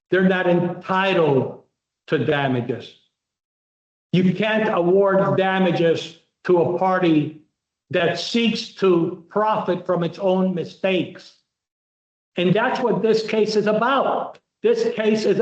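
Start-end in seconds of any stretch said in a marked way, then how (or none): 4.1-11.4 slow emphatic. Shown as a demonstration. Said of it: "Those more important things you're going to emphasize".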